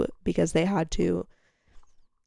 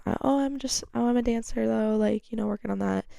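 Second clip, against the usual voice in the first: higher, hedging little answer; bashful reply; 3 semitones higher than usual. Retold or imitated. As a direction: play it down sweetly. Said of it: "I said".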